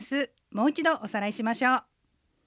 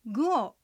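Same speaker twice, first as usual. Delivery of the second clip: グオ with the pitch falling; falling fourth tone. Shown as a demonstration. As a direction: let グオ drop in tone. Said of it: "音が下がる四声". (グオ を下がる四声で)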